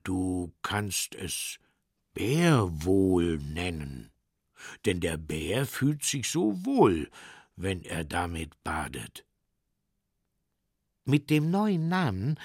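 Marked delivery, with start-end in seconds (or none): 0.0-9.2 unhurried, deep bear; thoughtful bear. Acted.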